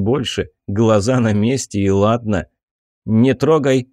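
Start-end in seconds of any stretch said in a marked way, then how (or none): 3.1-3.9 commanding. Acted. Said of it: "скомандовала Айрин".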